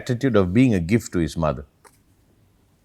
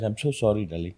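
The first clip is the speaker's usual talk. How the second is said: retold dying apology; 7 dB quieter than usual. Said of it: "as he's choking to death".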